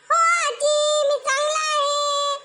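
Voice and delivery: put-on high boy's voice answering politely; a little grandson replying to granny; child voice. (लहान नातवाचा उंच आवाज)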